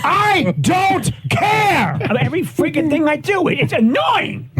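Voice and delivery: host ranting on air, screaming at the top of his lungs. Acted. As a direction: scream it out of sheer frustration. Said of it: "screamed at the top of your lungs".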